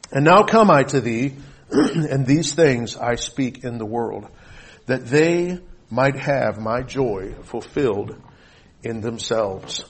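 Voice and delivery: measured, solemn Bible reading; formal pulpit reading; scripture reading. Acted. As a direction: proclaim the verses with weighty pauses, easing down at the ends. Reads scripture to congregation.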